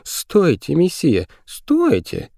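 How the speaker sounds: put-on very high-pitched girl's cry; high, urgent call at moderate volume. A narrator's reading. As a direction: call after someone running off, high and pleading. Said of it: "крикнула девочка".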